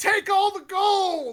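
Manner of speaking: spoken very loudly. In a role-played game, a supposed whisper to another player: very loud. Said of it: "Very loudly".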